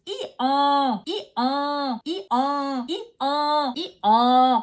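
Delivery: repeated hee-haw with a nasal French "en"; donkey bray. Shown as a demonstration. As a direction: bray like a donkey to show the sound. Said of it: "meet a donkey and it brays".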